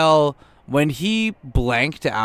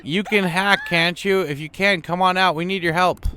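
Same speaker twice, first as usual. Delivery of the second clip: higher pitched, urgent plea for help; pleading character; 7 semitones higher than usual. Acted. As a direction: beg her to come out and help.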